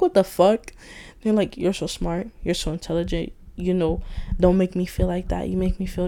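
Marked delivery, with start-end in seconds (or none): 0.0-0.7 retold disbelief. Recalling her reaction to people's praise, retold disbelief.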